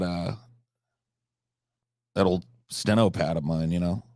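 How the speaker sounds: low, subdued veteran recalling the war; mock haunted war veteran. Mock war veteran tells a grim story.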